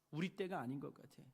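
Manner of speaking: low murmured excuse, barely voiced; quiet excuse. A doubter quietly shrugs off the temple work, murmuring. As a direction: hold it back, a small reluctant excuse.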